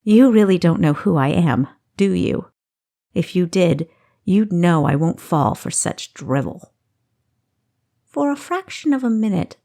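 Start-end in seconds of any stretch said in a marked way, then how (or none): 0.0-6.7 unpleasant scorn. Acted. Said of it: "Kessa laughed unpleasantly".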